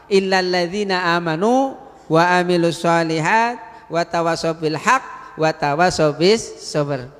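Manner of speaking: chanted Arabic verse; Arabic recitation inside an Indonesian sermon; Quran recitation. Acted.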